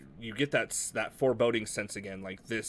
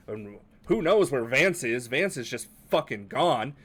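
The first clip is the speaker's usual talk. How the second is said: panicked; 2 semitones higher, 5 dB louder than usual. Acted. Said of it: "very panicked".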